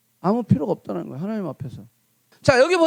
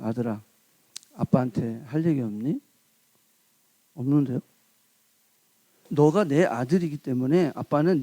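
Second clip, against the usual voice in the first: lower, soft, coaxing father voice; fatherly reassurance, softer and lower; gentle coaxing father; 7 semitones lower, 5 dB quieter than usual. Retold or imitated. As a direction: coax the son gently to confess. Father coaxing his son.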